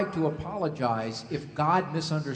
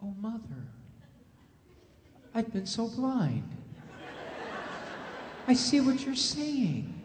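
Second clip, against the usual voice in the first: mock repentant child. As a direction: ham up the enlightened child. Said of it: "the child is going to go".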